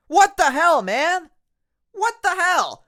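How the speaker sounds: loud, high, exasperated; exasperated outburst. Real, not acted. Wrestling fan ranting at WWE, exasperated outburst. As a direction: throw your hands up in disbelief. Frustrated rant opener.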